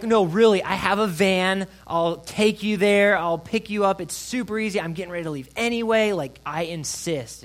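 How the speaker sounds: high, loud retold insisting; insistent offer. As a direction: press the offer hard, slowing on key words. Retells pressing a reluctant man.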